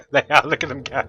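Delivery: loud giggle running into the words; tickled, laughing delight. Real, not acted. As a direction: laugh through it with real glee. Laughs as golems start working.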